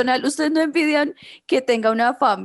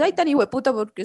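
mock disdain. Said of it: "Mi acento, al contrario".

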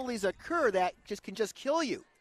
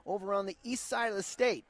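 play-by-play; 2 semitones lower than usual. Acted. Radio play-by-play.

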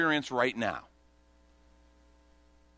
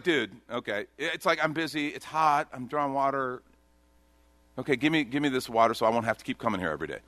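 mock-sassy brush-off, hurried at the end; sassy sarcasm. Preacher imitating the woman's sass toward Jesus, hurried and offhand. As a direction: play it like she's busy and can't be bothered. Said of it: "She's getting sassy with Jesus".

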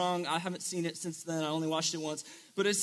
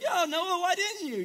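put-on much higher, teasing girl's voice calling out; mock girl in audience; 10 semitones higher than usual. A girl in the room calls out to Noah, mock teasing. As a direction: play the sassy girl demanding answers.

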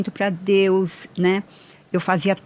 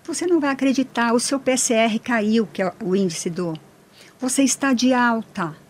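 higher, fast, joyful mock shout of good news; retold excited yell; 4 semitones higher than usual. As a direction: announce the news like a thrilled doctor. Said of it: "berrando com os dois braços pra cima".

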